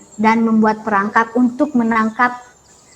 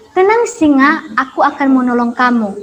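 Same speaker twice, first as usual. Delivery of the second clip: reassuring mouse; 3 dB louder than usual. Acted. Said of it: "tikus pun berkata kepada singa".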